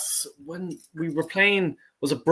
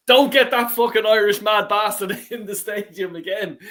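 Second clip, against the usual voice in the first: higher voice broken by a laugh; laughing mock ban; 4 semitones higher, 4 dB louder than usual. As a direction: imitate the ticket owner through laughter. Laughing while imitating ticket owner.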